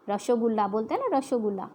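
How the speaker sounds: Bengali pronunciation. Retold or imitated. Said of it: "Bengali भाषा में".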